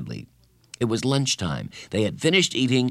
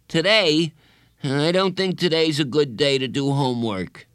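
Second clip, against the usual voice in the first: higher, louder dismayed protest; anguished; 6 semitones higher, 3 dB louder than usual. A narrator's reading. Bradley invited to do homework, anguished. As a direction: balk at it in mild anguish. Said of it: "Bradley's face twisted in anguish".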